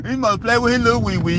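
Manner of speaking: high-pitched words through laughter; can't stop laughing as he says it; laughing while repeating. Real, not acted. Repeating his own joke, laughing.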